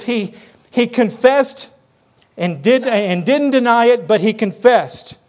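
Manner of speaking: slow emphasis on "confessed"; emphatic. Acted. Preacher reading out John's repeated confession, emphatic. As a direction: stress "confessed" both times, drawing it out. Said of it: "It's emphatic".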